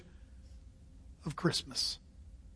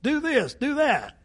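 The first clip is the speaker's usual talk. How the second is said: bossy commands; 6 semitones higher, 4 dB louder than usual. Retold or imitated. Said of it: "Brenda likes to go".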